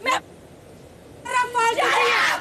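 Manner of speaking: heated, real yelling; angry shouting. Real, not acted. Housemate telling her opponent to shut up, shouting. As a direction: cut them off with an indignant shout. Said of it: "इतना मत चिल्ला".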